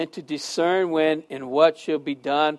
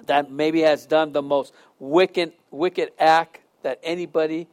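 prayer. Acted. Closing prayer.

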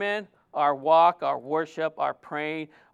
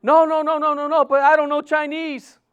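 eager protest; 6 semitones higher, 4 dB louder than usual. Retold or imitated. Sister protests, amused.

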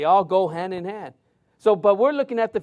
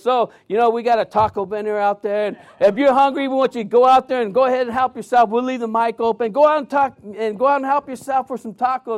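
raised, louder voice addressing a crowd; retold call to the whole room; imitated announcer; 4 semitones higher, 5 dB louder than usual. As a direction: call out a casual announcement over the mic. Announcer retold calling crowd to tacos.

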